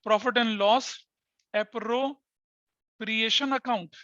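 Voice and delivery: very slowly, stretching appropriation; slow, drawn-out term. Shown as a demonstration. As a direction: spell the name out slowly for the class. Teacher introduces the new term.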